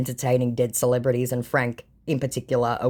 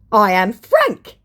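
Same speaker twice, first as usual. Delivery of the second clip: higher, slow, louder mock scammer; 7 semitones higher, 8 dB louder, much slower than usual. Scammer insisting to the vlogger, slow mock voice. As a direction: drag it out like a scammer who's caught. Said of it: "he said".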